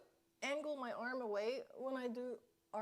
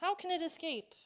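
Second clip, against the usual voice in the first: exasperated outburst; 4 semitones higher, 6 dB louder than usual. Real, not acted. Mosquito escaped again.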